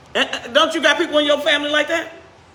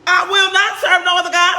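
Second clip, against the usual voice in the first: higher and louder, half-laughing, overprotesting; mock indignant vow; 6 semitones higher, 4 dB louder than usual. Preacher voices Israelites promising Joshua, laughing mock protest. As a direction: swear it too hard, like you don't mean it. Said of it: "I can just hear him".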